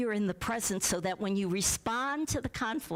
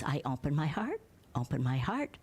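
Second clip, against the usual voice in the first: lower, gentle repeated mantra; calm open heart; 5 semitones lower than usual. Retold or imitated. Tolle calmly answering the angry woman, low and gentle. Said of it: "he just says".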